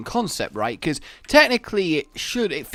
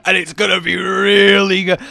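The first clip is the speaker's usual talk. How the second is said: alien tech voice; 3 semitones higher, 8 dB louder than usual. Retold or imitated. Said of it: "talk as if I have alien technology".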